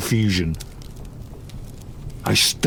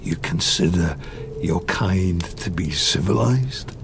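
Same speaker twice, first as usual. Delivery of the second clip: whispered scorn; 4 semitones lower than usual. Acted. Bitter retort to creator.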